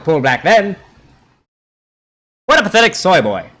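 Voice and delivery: put-on old-time radio announcer roast; loud brassy announcer voice; radio host voice. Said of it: "I can do a pretty good radio voice".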